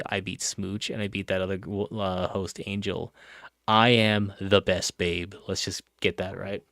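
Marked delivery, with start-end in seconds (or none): 3.7-5.3 slow, loud gloating declaration; proud boast. Real, not acted. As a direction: gloat it out slowly. Bragging about the vote win.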